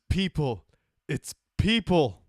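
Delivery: Heston catchphrase. Retold or imitated.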